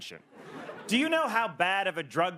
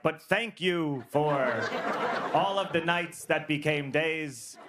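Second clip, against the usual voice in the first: overly polite; 2 semitones lower than usual. Retold or imitated. Client ending a breakup text to dealer, really polite. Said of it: "then I'm really polite".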